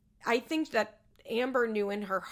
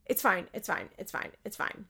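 dismissive fading. Retold or imitated. Matt brushing off Amber at the chapel, fading dismissively. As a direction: brush it off until it dies away. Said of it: "And he's like".

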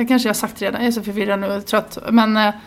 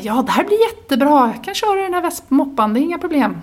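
overconfident parent; 4 semitones higher than usual. Retold or imitated. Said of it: "när man känner så här".

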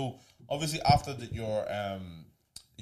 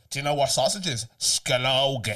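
imitated Irish lad; 2 semitones higher, 7 dB louder than usual. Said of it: "he goes, he goes".

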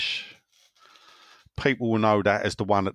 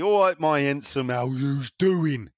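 a hint of an old soap character greeting; Reg Holdsworth impression; 3 semitones higher than usual. Host greets listeners in a light Reg Holdsworth voice. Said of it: "old, uh, Reg Holdsworth".

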